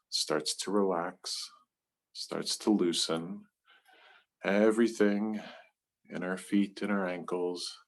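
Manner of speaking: soft, unhurried body-scan voice with pauses; guided meditation. Real, not acted. Leader guiding listeners to relax feet, legs and hips, soothing meditation voice.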